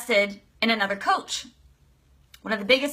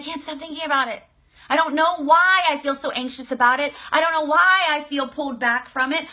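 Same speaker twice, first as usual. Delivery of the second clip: fast, higher anxious babble; anxious rush; 4 semitones higher than usual. Acted. Client voiced fretting she can't stop thinking, hurried and anxious. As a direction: spill the worry out fast. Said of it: "You're like".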